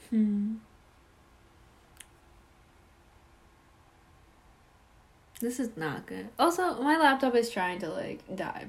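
spinning in chair, voice fading in and out; voice dipping while spinning. Real, not acted. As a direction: speak while turning away from the mic. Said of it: "I'm, like, spinning in my chair".

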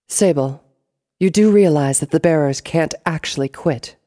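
high, loud, arch question; Black Rose, pointed boss. A narrator's reading. Black Rose questioning Sable as she leaves, pointed. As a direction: challenge the underling knowingly.

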